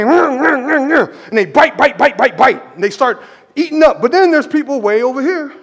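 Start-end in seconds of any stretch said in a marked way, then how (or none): 1.5-2.6 rapid-fire mock chomping on each "bite"; mimed biting. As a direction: imitate people gnawing away. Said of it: "They come in and they".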